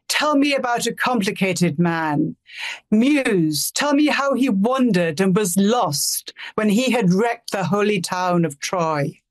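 slow, rhythmic English verse reading; dactylic verse. Shown as a demonstration. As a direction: read it in a steady metrical beat. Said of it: "So my version of those two lines is".

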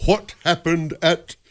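slow, halting Southern preacher; Jimmy Swaggart. Acted. Preacher dodging questions about the hotel, slow Southern delivery. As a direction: draw it out like a televangelist. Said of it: "Jimmy Swaggart always sounded like he was from Mississippi".

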